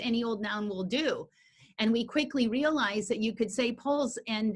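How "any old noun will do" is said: usual speaking voice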